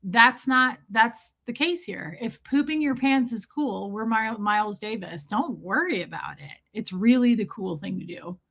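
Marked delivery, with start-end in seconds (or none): 2.2-5.3 lightly soothing, settling down; calming reassurance. Real, not acted. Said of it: "trying to calm her down". 5.3-8.4 low, soothing aside; lowered, easy comforting tone; calming reassurance. Real, not acted. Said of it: "trying to calm her down".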